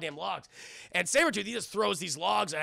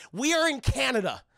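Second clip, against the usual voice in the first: raised-pitch incredulous protest; exasperated; 5 semitones higher, 4 dB louder than usual. Real, not acted. Reviewer objecting to Southern accents in the bar, exasperated. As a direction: point out the absurdity, exasperated. Ranting about accents in film.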